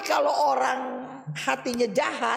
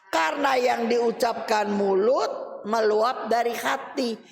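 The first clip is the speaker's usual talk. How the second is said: solemn scripture reading; 2 semitones higher than usual. Acted. Preacher reading Matthew to his friends, solemn declaiming. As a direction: proclaim the verse to the congregation. Reads a Bible verse aloud.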